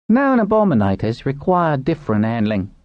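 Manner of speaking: high, insistent objection; crying out. A narrator's reading. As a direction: raise the voice in pitch to make the point. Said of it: "Pinch cried".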